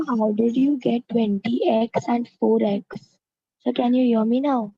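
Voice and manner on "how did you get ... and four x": louder, slower, carefully spaced question; speaking up. Real, not acted. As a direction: repeat it slowly and louder so the teacher can hear. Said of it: "Could you speak a little louder".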